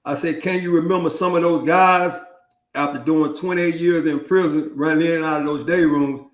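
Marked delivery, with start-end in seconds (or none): 0.4-2.2 repeating the question louder and clearer. Real, not acted. Repeating the question for a guest who missed it, louder. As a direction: say it again so he hears. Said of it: "Say that again?".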